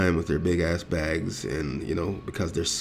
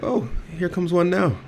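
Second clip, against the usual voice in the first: mock gleeful call-out; 13 semitones higher, 3 dB louder than usual. Catching staff out in store.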